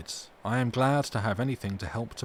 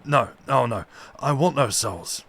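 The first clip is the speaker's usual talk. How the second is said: louder, firm denial; decisive refusal; 7 dB louder than usual. Acted. Madman refusing the doctor's suggestion about souls, loud firm denial. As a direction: push the no out hard and certain. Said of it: "shaking his head with a decision".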